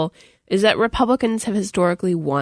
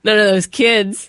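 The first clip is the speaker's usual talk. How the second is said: mock-grumpy Midwesterner, higher and slower; Midwestern accent; 4 semitones higher, 4 dB louder, slower than usual. Pundit grumbling about young voters for a joke, Midwestern accent. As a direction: put on a crotchety Midwestern accent. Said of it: "What was that accent you slipped into there?".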